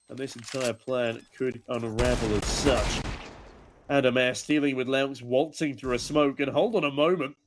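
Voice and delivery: lively play-by-play commentary; esports caster. Real, not acted. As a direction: call the round as it unfolds. Live play-by-play of the round.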